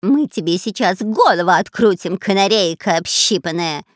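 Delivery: loud robber squeal of a threat; shrill yelp. Acted. Spy shrieking threats at the parrot. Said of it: "взвизгнул шпион Дырка".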